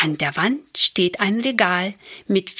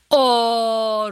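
put-on long drawn-out children's "oh"; understated storybook groan of children called home; 3 semitones higher than usual. A narrator's reading. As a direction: draw out a mild protesting cry. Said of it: "rufen die drei Kinder".

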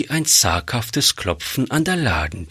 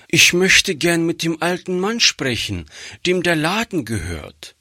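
put-on higher, small girl's voice; little girl; 7 semitones higher than usual. A narrator's reading. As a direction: speak as a shy little girl. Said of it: "sagte das Kind". (kleines Mädchen, höhere Stimme)

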